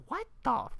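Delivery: high, loud, baffled outburst; exasperated, stammering bafflement; incredulous rant. Real, not acted. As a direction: demand an explanation in disbelief. Ranting at random movie moment.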